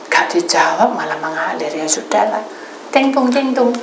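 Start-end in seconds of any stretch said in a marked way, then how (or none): 2.9-3.7 high, loud "ting tung"; imitated ringtone. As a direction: mimic a chiming phone. Imitates phone notification sound. (meniru bunyi telepon)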